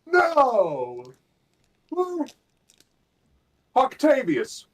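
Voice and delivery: high, loud panicked calls; shouting. Acted. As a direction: yell out for a missing ally. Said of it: "like I'm shouting to one of my comrades".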